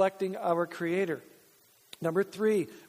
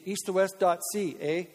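"east to west dot C A" said the Canadian way, letters spelt out; Canadian accent. Shown as a demonstration. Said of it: "let's say it Canadian".

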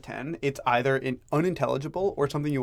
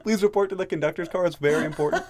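train announcement; 5 semitones higher than usual. Pretend. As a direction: call it over the speakers. Mock train announcement again.

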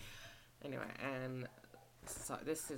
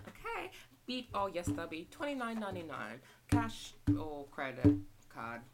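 cashier voice; 3 semitones higher, 7 dB louder than usual. Shown as a demonstration. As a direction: greet a customer at the till. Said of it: "go through the routine again".

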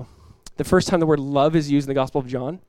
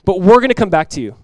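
firm, louder declaration; bold faith; 3 semitones higher, 6 dB louder than usual. Retold or imitated. Abraham assuring his two men, bold faith. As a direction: declare it boldly, with confidence. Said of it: "What bold, powerful faith".

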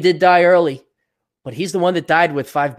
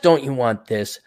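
mock salesperson; 2 semitones lower than usual. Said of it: "Don't ask me what I want".

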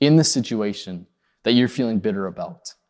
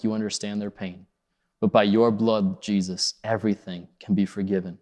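closing prayer; 2 semitones lower than usual. Acted.

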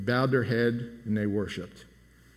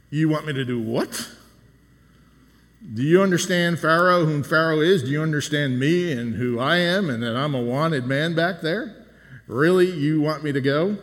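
imitating a disbelieving Moses, pitch leaping up on the questions; mildly hammed-up protest, questions rising; Moses, incredulous; 2 semitones higher, 4 dB louder than usual. Preacher paraphrasing Moses' reaction to God, incredulous. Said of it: "the way Moses reacted to that was".

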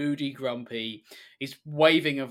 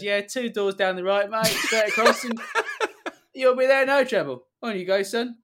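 put-on cheery old man; 7 semitones higher, 6 dB louder than usual. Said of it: "puts the gun down and goes".

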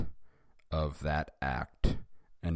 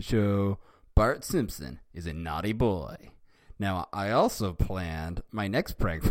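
lightly voiced Bart; 2 semitones higher, 4 dB louder than usual. Reading Bart's lines in fanfic.

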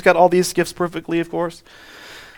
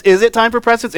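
"Is it" pushed up higher; stress on IS IT; 4 semitones higher than usual. Retold or imitated. Child trying another way on parents, high emphasis on "Is it". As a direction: lean hard on the opening "Is it", higher. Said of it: "The emphasis on the syllable will make it work".

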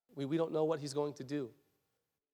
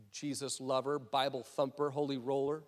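softer, lower muttered name-calling; mocking; 4 semitones lower, 5 dB quieter than usual. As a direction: toss out belittling labels under your breath. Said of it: "they're making fun of him".

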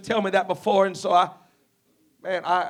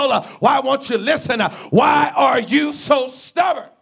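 exasperated rebuke; 3 semitones higher than usual. Acted. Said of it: "and he said".

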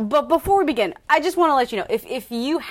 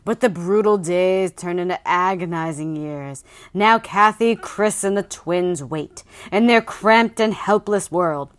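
dramatic blurb reading. Acted. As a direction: read it like a thriller trailer. Reads book blurb dramatically.

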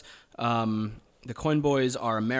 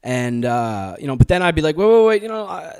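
speaking in a put-on American accent; an Australian doing an American accent; 3 dB louder than usual. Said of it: "You did a hell of a job in that American accent".

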